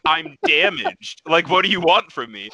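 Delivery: high, slow, hammed-up whimper of the injured; slow high mock whine, he's the one hurt; mock pained whine. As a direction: play the wounded victim, dragging out damaged. Retold reply to Nick.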